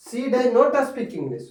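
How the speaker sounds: she does not speak English, "not" stressed high and slow. Shown as a demonstration. Teacher stressing "not" for students. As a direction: lean hard on "not". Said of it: "उस पर जोर डालकर बोला जाता है".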